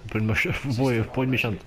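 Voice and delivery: giggling through the words; laughing. Real, not acted. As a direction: laugh mid-phrase.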